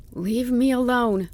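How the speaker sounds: high, strained pleading; imploring. A narrator's reading. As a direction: beg to be left alone, dejected. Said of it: "He spoke quietly and imploringly".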